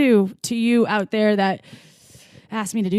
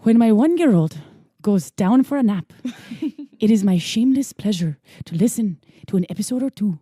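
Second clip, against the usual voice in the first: attempted Irish lilt, deliberately paced; Irish accent. Host reads a listener's review on request, Irish accent. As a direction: read it in your best Irish. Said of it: "that's my best Irish".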